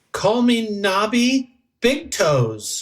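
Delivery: very high-pitched, slow, swooping gangster drawl. Announcing a new halfling name to the group: mobster voice. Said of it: "you sound like a, like a mobster".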